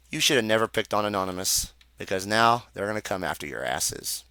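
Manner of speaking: low, hushed warning; quiet menace. Real, not acted. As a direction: drop down low and soft to threaten. Closing threat to the church.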